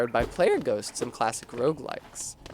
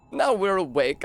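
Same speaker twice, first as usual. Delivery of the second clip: clipped British "Now we're awake", tongue slipping; the shaman's British-accented "Now we're awake"; 5 semitones higher than usual. Shown as a demonstration. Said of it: "that's British instead of now that we're awake".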